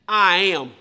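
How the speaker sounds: a serious, emphatic declaration. Shown as a demonstration. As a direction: say it seriously, with weight. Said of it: "This is a serious and emphatic".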